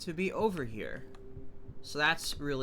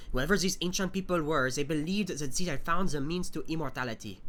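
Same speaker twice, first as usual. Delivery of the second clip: measured document reading voice; reading notes aloud. Acted. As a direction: read the journal entries steadily. Reads in-game notes aloud.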